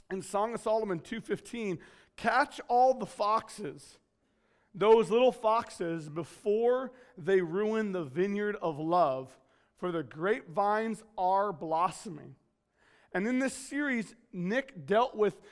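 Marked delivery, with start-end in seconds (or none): 2.2-12.4 slow, deliberate reading aloud; scripture reading. Real, not acted. Preacher reading Song of Solomon to church, slow measured reading. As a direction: spell out the verse unhurriedly, phrase by phrase. Reads a Bible verse aloud.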